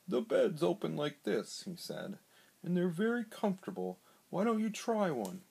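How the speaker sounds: sly porter voice. Acted. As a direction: sell it like a sneaky porter.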